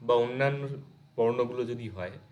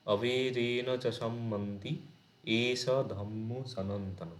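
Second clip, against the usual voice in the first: slow, measured chanting of the verse; verse recitation; slower than usual. Shown as a demonstration. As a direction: recite each word slowly like scripture. Recites Pali verse slowly. (ধীরে ধীরে শ্লোক আবৃত্তি)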